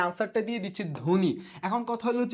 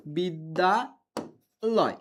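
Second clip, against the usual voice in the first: বিদ্যালয় stretched long and slow as one word; drawn out slowly; 2 semitones lower, much slower than usual. Shown as a demonstration. Teacher slowly sounding out বিদ্যালয় for online students. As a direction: draw out বিদ্যালয় slowly before splitting it. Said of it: "উচ্চারণ করার সময় বলতেছি".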